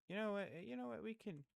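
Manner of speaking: high, loud burst of realization; excited outburst. Real, not acted. Ranking YouTubers, suddenly decides to change the list, excited. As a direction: jump up in pitch as the idea hits.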